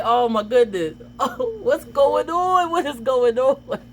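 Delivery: giggly tearful panic; half laughing, half crying. Retold or imitated. Teen being taken away, laughing and crying at once. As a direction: laugh through the tears. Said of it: "I was like".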